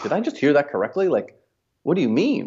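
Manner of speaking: high, disbelieving mock gasp of a question; incredulous coworker. Coworker overhears the domain purchase, high incredulous voice. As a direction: sound like you can't believe your ears. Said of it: "someone else came over and was like".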